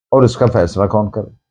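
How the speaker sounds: ordinary talk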